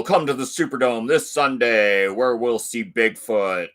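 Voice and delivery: lightly hyped announcer read; monster truck ad. Acted. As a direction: sell the Sunday show like an old radio spot. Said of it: "read that like those old monster truck ads".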